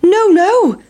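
high, small pancake voice; worried pancake. A narrator's reading. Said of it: "said the big pancake".

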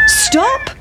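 very high, crowing stop; cockerel crowing stop. A narrator's reading. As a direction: crow it out like a cockerel. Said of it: "said the cock".

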